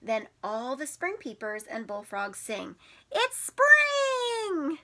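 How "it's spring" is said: frog voice. Acted. Frogs singing in the book.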